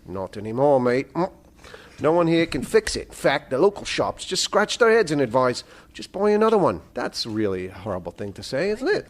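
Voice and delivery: lightly attempted Australian accent. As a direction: read it with a rough Australian accent. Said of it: "do my Australian accent".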